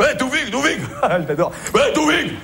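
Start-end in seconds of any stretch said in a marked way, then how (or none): 0.1-0.8 high mock call across the room; a playful imitation of a colleague hailing him; imitating Alain calling. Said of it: "Il fait comme ça". 1.7-2.3 much higher shrill-free squeaky call, pitched way up; a colleague's mocking call, voiced very high; imitating Alain. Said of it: "j'adore l'imiter".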